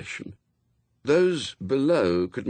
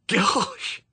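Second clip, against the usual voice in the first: a high, startled "Gosh!"; amazed gasp; 14 semitones higher than usual. Acted. Newt as the lights return, amazed. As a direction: caught off guard by wonder.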